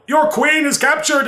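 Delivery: rally the dwarves with alarm; Darrow voice. Retold or imitated. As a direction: player imitating a Darrow. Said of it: "speak like the Darrow".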